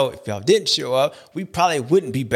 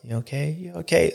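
soft worried check; 4 dB quieter than usual. Retold or imitated. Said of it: "I'm like".

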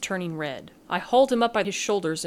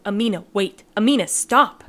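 1 calling after her; 2 semitones higher, 8 dB louder than usual. A narrator's reading. Timbu calls while fleeing.

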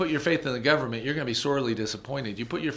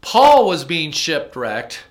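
retold friend; 7 semitones higher, 12 dB louder than usual. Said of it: "He goes".

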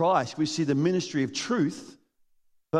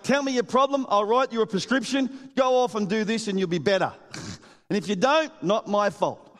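brisk fixer; 4 semitones higher than usual. Retold or imitated. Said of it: "it's kinda like".

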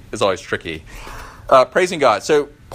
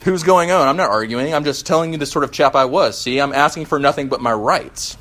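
huffy ghost, higher and louder; indignant ghost; 3 semitones higher, 3 dB louder than usual. Acted. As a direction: snap back at the bright man. Ghost argues with bright man.

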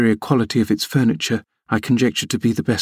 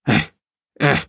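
exclaiming eh; 2 semitones higher than usual. A narrator's reading. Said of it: "exclaimed Joseph".

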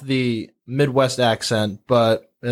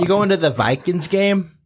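higher-pitched Minnesotan chat; Minnesotan accent; 5 semitones higher than usual. Shown as a demonstration. Local asking about the football game, Minnesotan accent. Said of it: "I think that's how they".

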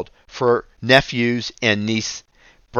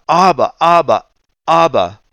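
higher and louder, imitating a little boy calling his daddy; child crying out; 6 semitones higher, 6 dB louder than usual. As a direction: cry out like a small son reaching for his father. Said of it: "But he cried out".

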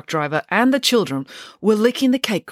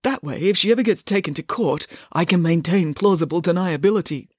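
prim, pompous father laying down rules; a fussy lawyer giving orders; father instructing the children before a visit, pompous; stiff lawyer father. Acted. Mister Green voiced.

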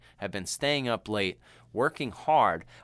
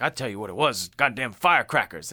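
gruff dad; 4 dB louder than usual. Retold or imitated. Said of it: "he's like".

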